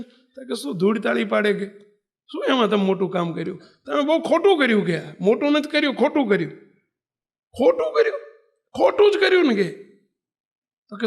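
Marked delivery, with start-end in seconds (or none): 0.5-6.5 scolding. Retold or imitated. Diwan to king, scornful rebuke. 7.6-9.7 very high, loud shocked echo; can't believe what he hears; shocked disbelief. Retold or imitated. King to diwan, shocked disbelief.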